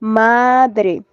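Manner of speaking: "Madre" with MA held and stressed; "Madre" as a careful demo, MA prominent; stress on penultimate syllable. Shown as a demonstration. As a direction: lean on the first syllable of "Madre". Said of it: "El acento está en la penúltima sílaba".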